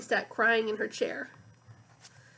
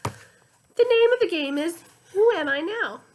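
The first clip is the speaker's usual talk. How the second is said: French donkey voice; 6 semitones higher, 7 dB louder than usual. A narrator's reading. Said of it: "French donkey with a sore throat voice".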